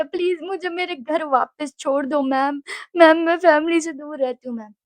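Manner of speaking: mock whining appeal; imitated tearful plea. Homesick student begging ma'am, mildly tearful plea. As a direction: beg with a touch of tears. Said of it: "भैं-भैं करके रो रही हूँ".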